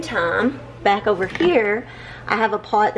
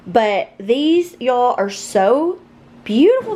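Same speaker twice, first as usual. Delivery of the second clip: gushing; 3 semitones higher, 7 dB louder, slower than usual. Real, not acted. Gushing over new plates.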